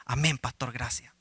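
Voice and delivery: low, subdued thanks; small, humbled acted reply; meekly grateful. Meek reply ending the joke.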